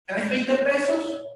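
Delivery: slow, loud demand for cash; demanding thug. Retold or imitated. Robber slowly demanding money from the teller. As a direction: lean on each word like a street tough.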